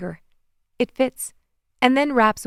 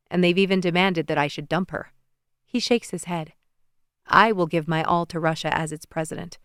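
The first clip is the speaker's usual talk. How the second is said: a hint of a lower, earnest young president; lightly voiced Alexei; 3 semitones lower than usual. Alexei to TV audience, lightly voiced earnest speech. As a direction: speak up for her sincerely.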